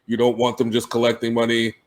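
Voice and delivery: low, soft, calm negotiator voice; soft-spoken executive. Retold or imitated. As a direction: speak softly and evenly. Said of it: "it's just his soft voice".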